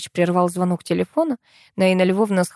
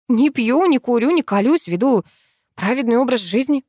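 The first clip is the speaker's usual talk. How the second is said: brisk higher-pitched listing; quick report; 6 semitones higher, 5 dB louder than usual. A narrator's reading. Viola listing her clean habits to Vasya, brisk. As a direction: reel off your virtues promptly. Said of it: "быстро сообщила я".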